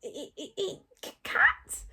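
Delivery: stuttering, high creature voice; squeaky rising question; Toothless. A narrator's reading. Toothless stutters, eyeing the cat.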